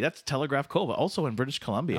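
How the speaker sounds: lightly voiced chummy Canadian host; Canada Dave, encouraging. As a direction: cheer him on like a hockey buddy. Canada Dave congratulates contestant.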